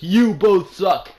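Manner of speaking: loud, high, slow furious jeer; adamant yell. Retold or imitated. A fan with middle fingers up yells at wrestlers, loud jeer. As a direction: yell it like a fan flipping them off. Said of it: "He was saying it so adamantly".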